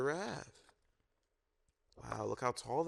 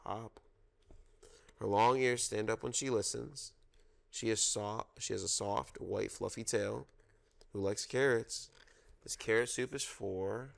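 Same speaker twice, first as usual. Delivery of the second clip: storytime reading. Acted. Reads zoo picture book aloud.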